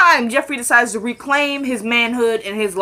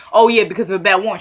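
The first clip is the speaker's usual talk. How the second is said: sly trick question; faster than usual. Retold or imitated. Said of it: "See how he tried to trip you up?".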